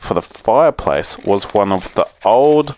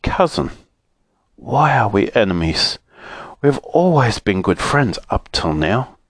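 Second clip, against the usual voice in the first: sorrowful. Acted. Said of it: "in a very sorrowful voice".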